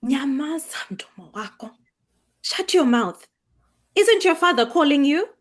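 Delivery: sharp rebuke. Acted. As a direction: cut her off hard.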